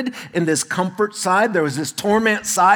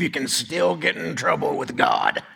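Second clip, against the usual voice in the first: Brent; 4 dB quieter than usual. Retold or imitated. Cowboy friend on what Catholics believe, light cowboy impression. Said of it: "He talks like this".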